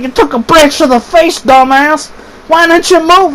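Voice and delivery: high-pitched mock scolding; exasperated scolding. Friend asking why he didn't move, high exasperated scolding. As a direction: imitate a friend's incredulous telling-off.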